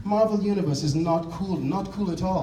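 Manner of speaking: mock Russian superhero pride; Russian woman. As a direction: lift the voice high to play her boast. Voicing the Russian women's boast.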